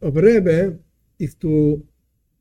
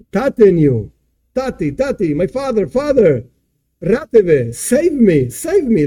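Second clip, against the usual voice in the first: acted cry for help, higher pitched; mock screaming; 3 semitones higher than usual. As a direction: call out to father as if drowning, half-hearted scream. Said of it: "he starts screaming".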